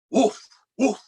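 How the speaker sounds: loud, high playful barks; dog woof. Acted. Reading to kids, a loud playful woof. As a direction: bark like a friendly dog.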